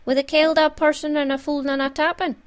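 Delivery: ominous list; voice of doom. A narrator's reading. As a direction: intone it like a dire omen. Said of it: "went on in a voice of doom".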